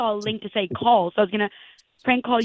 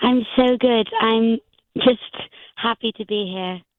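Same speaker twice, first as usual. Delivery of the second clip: put-on, disguised voice of an older woman. A caller to the show hiding her identity with a fake name, putting on an older woman's voice. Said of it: "sounded like a woman of a certain age".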